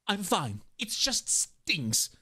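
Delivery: lightly acted brave reply; injured story character. Injured character brushing off the pain, restrained. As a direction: draw out the sting, understated.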